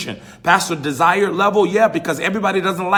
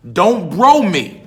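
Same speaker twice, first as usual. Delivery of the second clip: slow, louder scolding of a student; stern teacher; 5 dB louder, much slower than usual. Retold or imitated. Teacher warning students in class, slow and stern. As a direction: lay it down slowly like a teacher shutting slang out.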